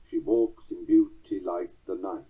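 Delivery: She walks in beauty like the night with walks, beau, like, night stressed; iambic stress. Shown as a demonstration. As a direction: bounce each second syllable. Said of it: "in iambic four beats".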